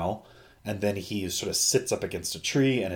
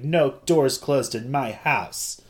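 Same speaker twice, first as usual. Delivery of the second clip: lightly voiced strict parent, slow and higher; conservative parent; 4 semitones higher, slower than usual. Imitating a parent forbidding closed doors, mock strict. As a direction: lay down the house rule, drawn out, lightly acted. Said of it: "like a very conservative parent".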